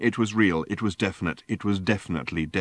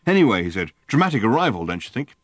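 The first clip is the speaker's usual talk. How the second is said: excitable Ford; faster than usual. Acted. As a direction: bark orders in a giddy frenzy. Ford's voice held in story.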